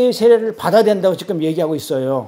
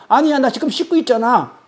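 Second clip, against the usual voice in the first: higher-pitched mock objection; indignant protest; 5 semitones higher than usual. Temple insider insists he is already washing, indignant protest. Acted argument with John.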